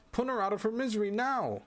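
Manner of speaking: a doctor bursting in, shouting; doctor's shout. Acted. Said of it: "he shouts at Kaim".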